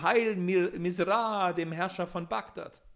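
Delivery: high, loud cheer; crowd cheering. A narrator's reading. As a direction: hail him like a crowd. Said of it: "alle schrien".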